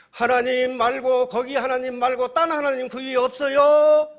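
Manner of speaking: high, sustained loud shout; desperate yelling. Acted. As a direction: yell up past God for anyone else. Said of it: "소리를 지르는 거예요".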